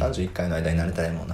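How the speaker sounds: suppressing a burp while talking; holding back a burp. Real, not acted. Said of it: "今一生懸命ゲップ我慢しながら言ってくれましたけど".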